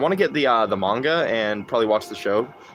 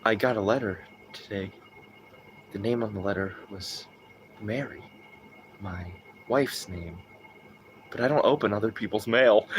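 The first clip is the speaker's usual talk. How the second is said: meme letter reading; 4 semitones lower, 6 dB quieter than usual. Retold or imitated. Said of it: "they changed it where it was like".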